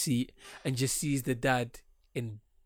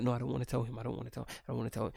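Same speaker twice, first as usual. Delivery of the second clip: soft, lower reluctant protest; hesitant; 3 semitones lower, 8 dB quieter, much faster than usual. Acted. Bride afraid to tell her fiancé, hesitant undertone. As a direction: shrink back from telling, voice dropping. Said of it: "She's so hesitant to tell him".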